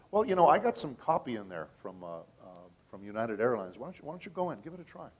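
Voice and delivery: lightly acted innocent offer, lifting in pitch; mock-casual suggestion. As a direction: voice a director casually daring the complainer to try. Director coolly answers the livid complainer.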